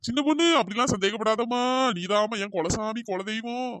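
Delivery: mock devotion, lightly voiced; fake sweet talk. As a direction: sweet-talk her to calm her down. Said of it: "இந்த நடிக்கிற வேலையெல்லாம்".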